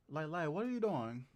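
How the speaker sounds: imitating a little kid's British accent; nephew's British accent. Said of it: "My nephew sound like, this how he talk".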